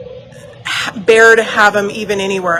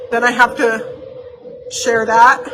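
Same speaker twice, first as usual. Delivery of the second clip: tearful, words breaking off; crying. Real, not acted. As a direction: voice catching on a real sob. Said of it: "didn't think I'd be ending the video crying".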